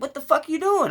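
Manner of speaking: very high, incredulous mock yelp; high-pitched re-enacted objection; outraged protest. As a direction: squawk it in disbelief, as retold. Retold protest at clothes being cut.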